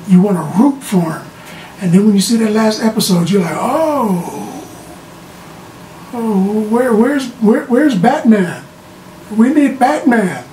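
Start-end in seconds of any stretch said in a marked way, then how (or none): 3.6-10.4 higher, stammering plea for rescue; mock alarm. Viewer shocked by the last episode, mock alarm. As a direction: plead for the hero, pitched up.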